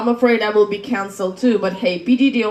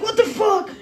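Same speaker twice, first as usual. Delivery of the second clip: mock shocked; 11 semitones higher than usual. Bystanders' shocked reaction.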